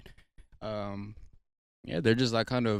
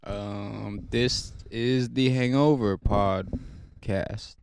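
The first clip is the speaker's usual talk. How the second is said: slow, groggy hungover voice; much slower than usual. Real, not acted. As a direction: drag it out like you're hungover. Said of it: "Why Della talking like he's hungover?".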